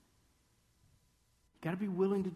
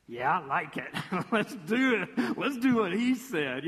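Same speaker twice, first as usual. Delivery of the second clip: loud, gung-ho sidekick; eager follower friend; 5 dB louder than usual. Acted. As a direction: jump on board with the plan. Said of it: "the second friend you have who goes".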